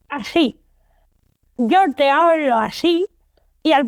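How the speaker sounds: talking around a pen held in the mouth; pen in teeth. Shown as a demonstration. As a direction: speak with a pen clamped between the teeth. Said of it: "con un boli en la boca".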